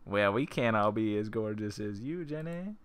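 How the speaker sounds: lightly flirty character read, rising on Jenny. Shown as a demonstration. Player redoing Jenny's line as a light flirt. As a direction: purr it like a compliment you mean. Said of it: "Oh, hell yeah".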